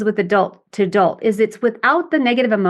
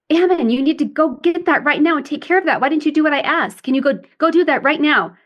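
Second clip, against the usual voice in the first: higher, stern commanding mom; a stern mother giving orders to her son; critical parent; 5 semitones higher than usual. Retold or imitated. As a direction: order the little boy about. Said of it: "I was acting in my critical parent".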